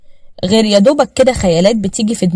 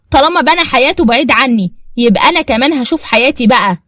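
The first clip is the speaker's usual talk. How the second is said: defiant anger; 5 semitones higher, 3 dB louder than usual. Acted. Wife insists on divorce angrily.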